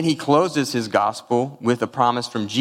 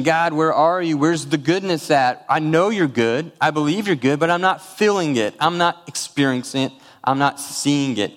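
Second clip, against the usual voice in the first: retold plea; 5 semitones higher than usual. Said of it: "And I kept asking".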